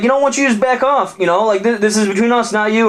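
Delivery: very high, snappy jock; angry bro. Acted. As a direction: tell the monster to butt out, high. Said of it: "the dude's like".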